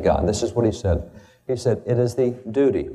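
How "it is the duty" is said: "duty" set off by a slight pause and stressed. Shown as a demonstration. Speaker quoting Washington's proclamation to an audience, stress on "duty". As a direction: lean firmly on the word "duty". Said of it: "I would emphasize the word duty".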